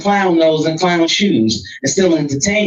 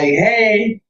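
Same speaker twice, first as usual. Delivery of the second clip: higher, casual innocent greeting; nothing happened; 5 semitones higher than usual. Retold or imitated. Texting his lady the next morning, innocently casual. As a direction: greet as if all is forgotten. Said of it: "like, nothing happened".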